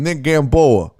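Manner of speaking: mock-Italian flourish on the name; Italian accent. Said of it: "that just sounds like an Italian".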